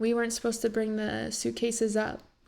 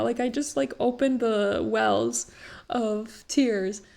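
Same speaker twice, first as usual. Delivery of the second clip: slow tearful; slower than usual. Real, not acted. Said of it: "I'm so emotional now".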